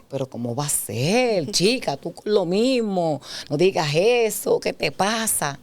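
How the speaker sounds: mock-incredulous protest, swooping tune; dismissive male reply. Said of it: "Porque los hombres son así". (incredulidad burlona de marido)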